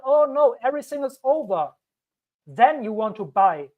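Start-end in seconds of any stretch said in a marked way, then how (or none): 0.0-1.7 high, panicky mock wail. Crypto YouTuber mimics panicking holders, mock fear. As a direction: play a scared seller mid-crash. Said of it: "when it feels like".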